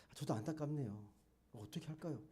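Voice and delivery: softly voiced gentle sympathy; kind, warm. Preacher imagines a kinder reply to mother, soft and warm. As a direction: soften right down, as if sharing the worry. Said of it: "뭔가 좀 상냥하게, 따뜻하게".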